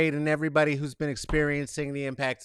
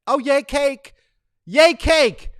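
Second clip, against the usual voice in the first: high, loud happy cheering; cheering for cake, high and loud; excited cheer; 9 semitones higher, 10 dB louder, slower than usual. Real, not acted.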